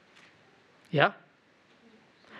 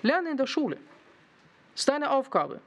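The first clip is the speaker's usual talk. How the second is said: a hint of a stern father, raised higher; 5 semitones higher than usual. Father ordering his son to study, lightly stern. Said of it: "Mein Vater hat mir gesagt".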